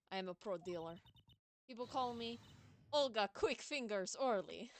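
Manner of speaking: put-on card dealer introducing herself in Russian accent. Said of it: "I was doing a Russian accent for her".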